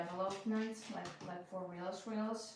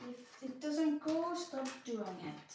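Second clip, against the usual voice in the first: slow, higher opening that drops at the end; firm self-advice; 5 semitones higher, slower than usual. Real, not acted. Puzzler reminding herself of her own advice, firm and slow. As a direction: spell out a rule to yourself, slowly. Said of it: "I keep literally telling myself".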